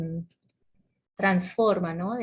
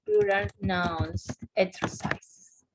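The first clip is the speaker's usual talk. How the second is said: slow dictation; much slower than usual. Shown as a demonstration. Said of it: "sería interesante que buscaran".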